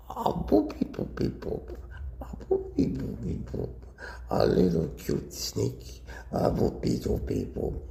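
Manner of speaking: playful babbling to a pet; baby talk. Shown as a demonstration. Owner shows how she babbles to her cobra. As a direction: coo nonsense at the snake. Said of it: "Here's what you do".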